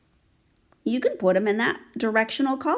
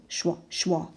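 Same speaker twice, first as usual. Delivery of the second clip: soft whooshing schwa, schwa; wing flap sound; 4 dB quieter than usual. Shown as a demonstration. Teacher voices the schwa wings, soft whoosh. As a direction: make the wings flap softly. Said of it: "his wings go schwa".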